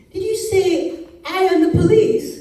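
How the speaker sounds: high, loud, incredulous question; quizzing in disbelief. A narrator's reading. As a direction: query it as if you misheard badly. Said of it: "he quizzed".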